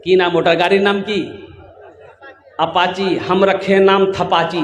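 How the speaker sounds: quick, laughing question; laughing joke about the bike name; laughing aside. Real, not acted. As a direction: tease the crowd with a chuckle.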